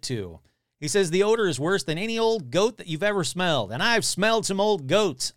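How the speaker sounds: lively read-aloud with quotes lightly acted; article read aloud. Podcaster reading a monster report to listeners, animated read-aloud. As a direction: read out an old news story with relish.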